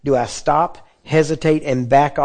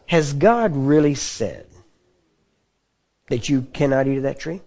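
sly serpent. Retold or imitated. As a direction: plant a seed of doubt, lightly voiced. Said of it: "You know what he said?".

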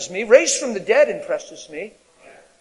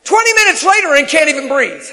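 laughing while talking; 8 semitones higher, 9 dB louder than usual. Real, not acted. Laughing about scaring someone.

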